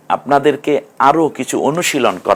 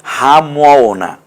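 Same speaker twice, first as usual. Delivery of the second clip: syllable by syllable; 2 semitones higher, much slower than usual. Shown as a demonstration. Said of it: "হামিম না কিন্তু".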